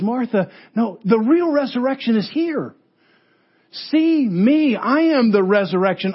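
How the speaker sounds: voicing Jesus. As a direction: proclaim it as Jesus would to Martha. Preacher voices Jesus speaking.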